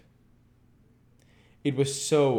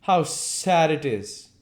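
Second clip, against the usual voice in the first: murmured; 10 semitones higher, 8 dB louder, slower than usual. A narrator's reading. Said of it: "murmured Dorian Gray".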